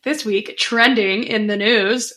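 slow, announcing the headline; newscaster voice. Shown as a demonstration. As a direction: read it like a news anchor. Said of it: "sounded like a very newscaster thing to say".

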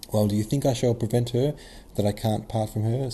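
put-on a touch of an irritated old prince; brusque, affronted retort from the old father; angry. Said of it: "said the old prince angrily".

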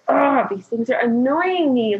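drawn-out exasperated groan into words; mildly exasperated retelling; frustrated growl. Retold or imitated. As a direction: grumble it slowly, fed up. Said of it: "growling out of frustration".

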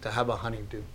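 tender longing; a touch of grief; heartfelt. Retold or imitated. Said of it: "He goes".

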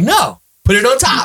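lightly voiced showing-off uncle; mock big-shot uncle. Uncle telling nephew to pile it on, mild bravado. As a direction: say it like money's no object. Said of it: "I'm like".

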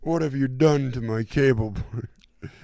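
high, loud and slow, a hammed-up lament; wailing Russian guy. Retelling a Seinfeld nightmare scene, hammed-up high wailing cry. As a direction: overact the grief, stretching each word out.

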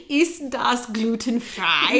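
slow careful German attempt; slow careful try. Shown as a demonstration. Learner slowly repeating the German phrase in German. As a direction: feel out each German syllable slowly. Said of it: "You can do that one, right?".

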